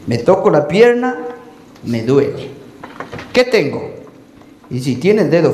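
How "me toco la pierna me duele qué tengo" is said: complaining patient. Acted.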